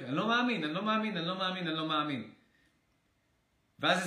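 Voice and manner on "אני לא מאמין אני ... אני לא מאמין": yelling like a fool. Retold or imitated. Speaker mocking himself yelling in disbelief, fading down. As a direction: start yelling, then run out of steam. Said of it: "כמו איזה טמבל כזה צועק".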